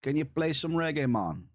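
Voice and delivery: playful mock Swedish accent, play lifted high. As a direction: quote the chatter in a Swedish accent. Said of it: "with a Swedish accent".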